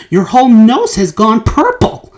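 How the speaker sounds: mild shouting father. A narrator's reading. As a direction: back up your wife, firmly. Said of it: "shouted Mister Beauregard".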